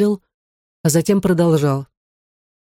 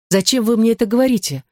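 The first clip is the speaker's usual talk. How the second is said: higher, hurt exclamation; exclaiming; 6 semitones higher than usual. A narrator's reading. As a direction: cry out in dismay. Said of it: "воскликнула она". (восклицая с обидой)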